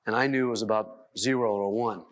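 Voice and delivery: ordinary talk, nothing marked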